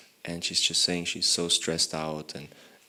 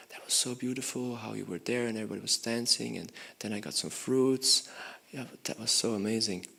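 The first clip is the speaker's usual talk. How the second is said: excited recalling; 3 semitones higher, 4 dB quieter than usual. Retold or imitated. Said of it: "she was really like".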